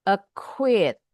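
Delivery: "acquit" broken up, second syllable stressed. Shown as a demonstration. Teacher demonstrates the stress mark, "acquit" stressed on the second syllable. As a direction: hold back, then hit the end of "acquit". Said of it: "itu caranya".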